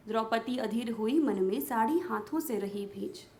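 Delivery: rhythmic storytelling verse, held back; dramatic poem narration. Acted. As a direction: narrate the tense scene in measured verse.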